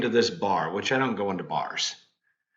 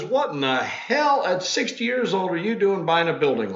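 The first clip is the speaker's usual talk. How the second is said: higher, mock-incredulous classmate; lightly voiced teasing schoolmate, pitched up; a hint of the baffled old friend, higher; imitating old classmate Jeff; 7 semitones higher than usual. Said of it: "He goes".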